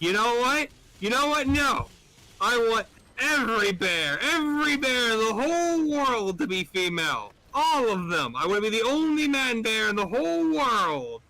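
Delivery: high, emphatic, stretched-out declaration; hammed-up greedy demand. Bear demands his third and final wish, wildly excited.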